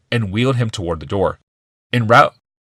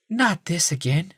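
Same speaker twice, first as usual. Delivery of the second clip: exasperated wife; 10 semitones higher, 3 dB quieter, slower than usual. A narrator's reading. Rebecca exasperated.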